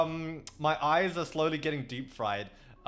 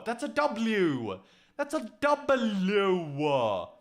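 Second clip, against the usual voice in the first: drawn-out exclamation; 2 semitones higher, much slower than usual. Real, not acted. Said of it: "stretching the word for the chat".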